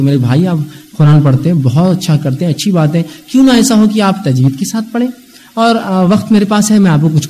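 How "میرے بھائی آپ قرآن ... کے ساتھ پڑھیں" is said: gentle invitation. Shown as a demonstration. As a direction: coax him kindly toward tajweed. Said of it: "آپ بلائیے اس کو". (نرمی سے سمجھانا)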